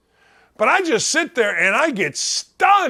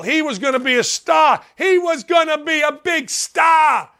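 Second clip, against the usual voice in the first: mock Godfather movie boss; 4 semitones higher than usual. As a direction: play the indignant film bigshot, stretching out the last line. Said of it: "as they said in The Godfather".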